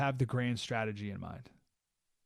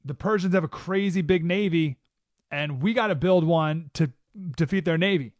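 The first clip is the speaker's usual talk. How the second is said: pushy advisor voice, a bit louder; advisors urging; 3 semitones higher, 6 dB louder than usual. Retold or imitated. Advisors pushing the king to build a navy, louder urging. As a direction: press the king to act. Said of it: "his advisors are like".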